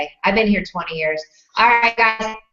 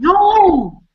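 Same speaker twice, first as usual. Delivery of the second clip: loud, high, drawn-out no; laughing protest; 9 semitones higher, 6 dB louder than usual. Real, not acted. Host stopping guest's rude Italian phrase, loud laughing protest. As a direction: cry out in playful shock.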